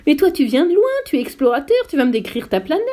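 the geographer suddenly excited at meeting an explorer; suddenly moved. A narrator's reading. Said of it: "soudain s'émut".

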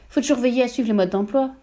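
voix d'épouse plus aiguë, sermonneuse; épouse donneuse de leçons. A narrator's reading. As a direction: fais la leçon avec condescendance. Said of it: "lui dit madame Verdebois". (madame Verdebois sermonne son mari sur les modes d'emploi)

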